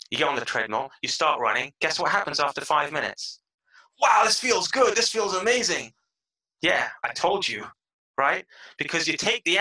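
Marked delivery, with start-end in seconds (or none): 4.0-5.9 high, loud exclamation of amazement; acted delight. Runner five minutes into the treadmill, acted excitement. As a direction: play thrilled surprise at feeling good.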